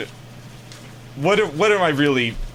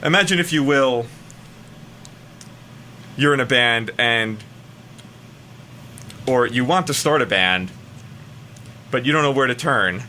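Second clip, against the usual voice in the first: a hammed-up dramatic reading of a Craigslist ad. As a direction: read it like an epic movie trailer, over your own music. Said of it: "the dramatic reading idea".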